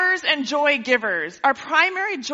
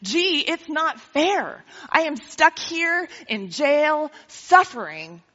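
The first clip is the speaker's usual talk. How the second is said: mock self-pity; 3 semitones higher, slower than usual. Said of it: "for him to think".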